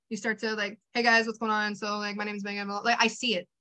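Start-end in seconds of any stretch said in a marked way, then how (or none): 0.9-2.7 low, listless mock video intro; sloppy, uninspired. Trainer mimics a bored creator's content, sloppy and uninspired. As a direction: imitate someone who has stopped having fun. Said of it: "You start to get sloppy".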